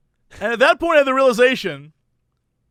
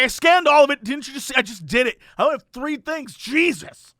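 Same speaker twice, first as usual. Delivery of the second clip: exasperated mock protest, pitched up; higher, irritated self-defence; pissed off; 4 semitones higher than usual. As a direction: imitate a customer losing patience. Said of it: "he's pissed now. He's, like, furious".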